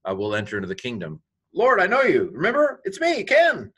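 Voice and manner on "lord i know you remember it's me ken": high, loud, stretched-out pleading; desperate plea. Acted. Rejected believer pleading with the Lord, desperate and high. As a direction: beg to be recognized, voice pitched way up.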